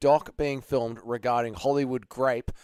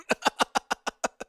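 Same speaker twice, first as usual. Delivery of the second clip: mock villain laugh. Cackles after mock threat.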